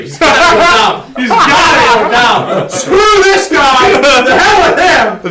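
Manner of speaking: mock heckling. Player heckling Gary in character.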